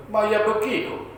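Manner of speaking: high, slow drawn-out call. Acted. Prophet opening the door to crying men, calling out. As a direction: call out to whoever is there, stretching it.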